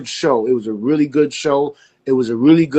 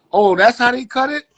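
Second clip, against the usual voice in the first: higher pitched, surprised discovery; dawning realisation; 10 semitones higher than usual. Retold or imitated. Barber seeing how the show was edited, higher and surprised. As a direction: catch on as it dawns on you.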